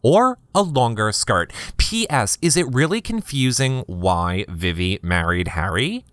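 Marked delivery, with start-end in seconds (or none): 2.4-6.0 rising question ending on "Harry"; voice going up. Real, not acted. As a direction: question with "Harry" lifted sharply at the end. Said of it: "my voice went up there".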